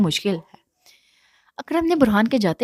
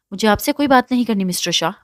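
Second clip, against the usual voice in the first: fast, biting each word; quick, cold refusal through clenched teeth; through gritted teeth; 2 semitones higher, 3 dB louder than usual. Acted. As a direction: chew out every word in anger. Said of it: "چبا چبا کر ادا کیا".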